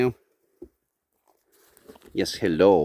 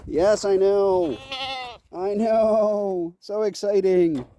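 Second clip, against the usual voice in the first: pet talk; 7 semitones higher, 3 dB louder, much slower than usual. Real, not acted. Talking to excited farm animals.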